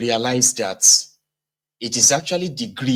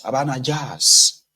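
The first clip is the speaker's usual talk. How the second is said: mock believer; slower than usual.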